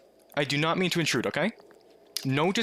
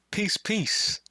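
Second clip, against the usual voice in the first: whisper; 6 semitones higher than usual. Real, not acted. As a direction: breathe it out as a goodbye. Whispered sign-off.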